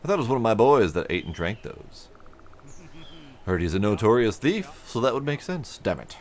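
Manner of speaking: a hint of a welcoming foreman; friendly supervisor. Player voicing a supervisor greeting a traveler, hearty. NPC dialogue.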